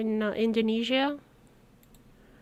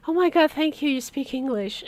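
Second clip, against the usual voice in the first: louder and higher, imitating her own relief; relieved excited thanks; 4 semitones higher, 4 dB louder than usual. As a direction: replay the gush of thanks to the old man. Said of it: "And I'm like".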